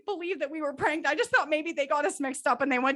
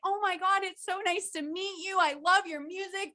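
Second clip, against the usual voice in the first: gushing fan; 5 semitones higher than usual. Pretend. Imagined fangirl greeting celebrities.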